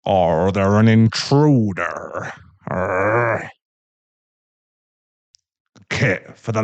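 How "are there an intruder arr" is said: put-on thick Irish accent. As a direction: rumble it in a fake Irish accent. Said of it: "rumbles in a thick Irish accent".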